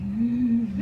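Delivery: thin puppy-like whimper. Retold or imitated. Daughter imitates her sick dad, puppy whimper. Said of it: "whimpering like a puppy".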